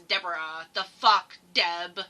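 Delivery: put-on light Valley accent, low-pitched; mock Valley accent, slightly exasperated. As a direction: put a touch of Valley girl on it. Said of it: "needs to be said with a Valley accent".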